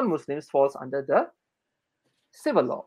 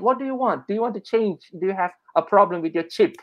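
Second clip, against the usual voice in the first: questioning clerk; 3 semitones higher, faster than usual. Retold or imitated. Registration clerk asking a customer what he wants, brisk questioning. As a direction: voice an official firing off questions.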